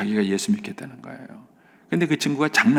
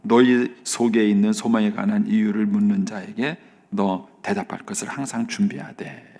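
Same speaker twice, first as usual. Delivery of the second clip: scripture quote; 3 semitones lower than usual. Retold or imitated. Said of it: "응답받은 말씀이 바로 이 말씀이었었어요".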